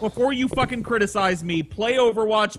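heated enthusiasm. Real, not acted. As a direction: argue excitedly, breaking into a laugh at the end. Heated defence of a game.

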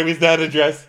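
sarcastic yell. Retold or imitated. Brandy asking mockingly about the dress, loud sneer. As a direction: sneer the question. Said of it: "She goes".

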